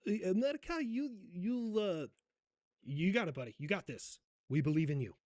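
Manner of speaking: 느릿하게 끊어 말하는 Zelensky 흉내 억양; 동유럽 억양을 살짝 얹은 Zelensky 흉내; Zelensky accent. Acted. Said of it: "do my best Zelensky accent".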